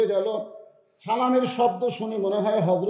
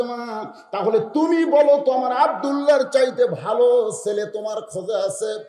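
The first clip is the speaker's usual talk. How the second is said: raised, pressing preacher's voice for a piqued father; a touch of annoyance, pitched up; mild retold anger; 4 semitones higher, 4 dB louder than usual. Umar challenging the girl, a little angry. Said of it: "একটু রাগ করে বলতেছে".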